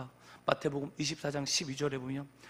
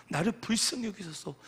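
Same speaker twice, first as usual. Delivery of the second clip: repeated plea with more push; moderately raised appeal for mercy; modelled crying out; 4 semitones higher than usual. Shown as a demonstration. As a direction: lift the plea toward a cry. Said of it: "하면서 우리는 소리쳐야 됩니다".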